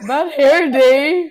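drawn out, amused disbelief; incredulous question. Real, not acted. Repeating friend's words back.

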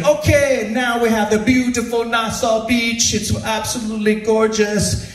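mock the cheery tour guide. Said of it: "And he goes".

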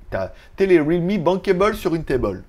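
"bankable" and "table" rhymed as "bankay-bol", "tay-bol", fake American accent; French speaker faking American-accented English words; joking Franglais American accent; mock American accent. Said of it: "avec l'accent américain".

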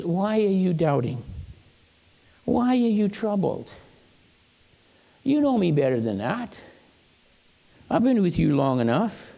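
mildly tender reproach, with pauses between sentences; gentle questioning. Acted. Jesus asking the doubting disciples, gently. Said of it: "he asks very gently".

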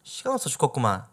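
drawn-out exasperated Jeolla 아따, loud and slow; frustrated Jeolla dialect. Shown as a demonstration. 목포 사람이 답답할 때 쓰는 전라도 사투리, 길게 끄는 짜증. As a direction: sigh out the Jeolla 아따 like someone fed up. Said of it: "답답할 때".

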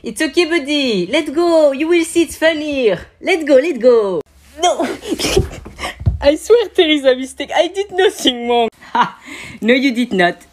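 high, loud squeaky voice; a cheeky creature mocking; squeaky cartoon character.

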